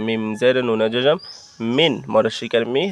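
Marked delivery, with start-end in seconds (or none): 1.8-1.9 "মিন" closed on a clear n, tongue to the teeth; crisp n ending on "মিন"; clear dental n. Shown as a demonstration. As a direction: end "মিন" on a clean n without a nasal ং. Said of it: "দন্তান্নর উচ্চারণ করব".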